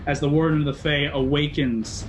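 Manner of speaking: heightened, driving heroic narration; game master narration. Acted.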